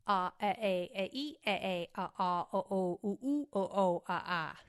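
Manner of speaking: loud, punchy overemphasized vowels in quick pairs and triples; vocal warm-up syllables. Shown as a demonstration. Actor showing the double warm-up pattern, loud and overemphasized. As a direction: hammer out every vowel, working the mouth. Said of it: "it goes like this".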